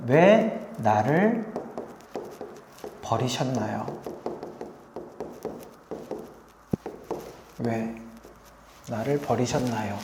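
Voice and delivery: slow, soft, broken plea; mild, hushed lament; anguished cry. Retold or imitated. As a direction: ask it as if your heart is breaking. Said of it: "울면서 절규하면서 하셨을까?".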